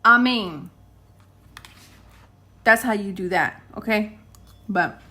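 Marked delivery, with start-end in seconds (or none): 0.0-0.7 firm, slow declaration; forceful rebuke. Acted. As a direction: rebuke it with authority. Rebuking spirit, prayer voice.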